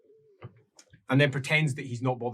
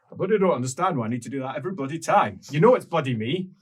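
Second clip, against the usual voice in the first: fast, irritated rant, louder at the end; exasperated grumble; 2 semitones higher, 4 dB louder, faster than usual. Acted. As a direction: grumble like a fed-up regular. Arthur complaining at the door.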